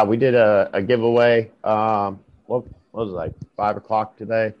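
talking after dental surgery; teeth just removed. Real, not acted. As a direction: speak like teeth were just pulled. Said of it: "I just had half my teeth removed".

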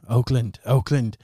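a touch of a heartfelt captain's thanks; Captain Sieg. Acted. Captain thanking Oakland for healing her voice, lightly acted gratitude. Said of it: "Captain Sieg looks at you".

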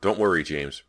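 calling out. Acted. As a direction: call it to a child through a wall. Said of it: "Brant called".

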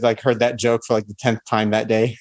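ordinary delivery

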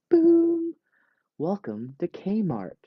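big high boom, then a slow drawn-out welcome; mock store greeter welcome. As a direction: greet shoppers like a cheesy Kmart greeter.

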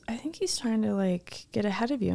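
quiet imitation of a boyfriend's aside; retold discreet aside. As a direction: say it under your breath as a tip-off. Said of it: "my boyfriend goes".

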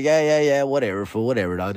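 imitating an unimpressed listener brushing it off; mock dismissive. Visitor brushing off the museum talk, mock dismissive.

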